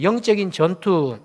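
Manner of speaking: slow, deliberate 영적인 전투 for the congregation to echo; slow call to repeat. Shown as a demonstration. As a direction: say 영적인 전투 slowly so they repeat. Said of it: "한번 따라해 보시겠습니까?". (따라하도록 천천히 영적인 전투)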